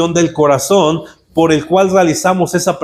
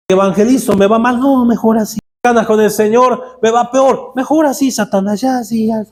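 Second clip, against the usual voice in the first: higher, whiny surrender; whiny giving in; 4 semitones higher than usual. Retold or imitated. Christian excusing himself to Satan, whiny and higher. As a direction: whine it out, pitched up.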